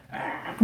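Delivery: rasping, voiceless "ah" through phlegm; phlegmy prayer groan. Retold or imitated. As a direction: imitate someone praying with a phlegm-clogged throat. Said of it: "가래 끓는 목소리로". (가래 끓는 소리 흉내)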